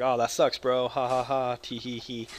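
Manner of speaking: light sympathetic tease with a giggle; mild teasing. Retold or imitated. Gamer's toned-down version of what he told his friend, light giggly tease. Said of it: "I was like".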